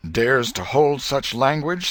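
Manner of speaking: loud prompting line; feed the line loudly. A narrator's reading. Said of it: "said Tom, prompting".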